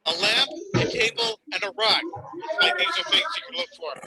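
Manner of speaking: upbeat ad read, quick at the end; commercial voice. Retold or imitated. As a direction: sell it like a TV ad. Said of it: "part of the commercial goes".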